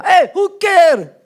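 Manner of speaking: put-on high, drawn-out Arab-accented dismissal; pushy Arab accent. Arab man dismissing her boyfriend, pushy mock Arab accent. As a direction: brush off the refusal in an Arab accent. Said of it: "they don't take no for an answer".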